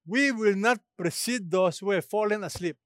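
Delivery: ordinary talk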